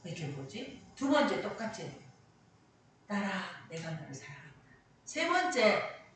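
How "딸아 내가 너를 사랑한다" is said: soft, low retelling of God's call; gentle, hushed assurance; tender divine voice. Retold or imitated. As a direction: quietly reassure a daughter. God's voice heard a second time.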